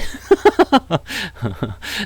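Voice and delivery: long helpless burst of laughter. Real, not acted. Streamer joking about being from Seoul, cracking up. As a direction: crack up at your own line.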